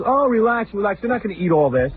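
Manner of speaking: high, lightly voiced dismissive old man; father-in-law waving off complaint, lightly voiced; mock father-in-law. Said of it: "He goes".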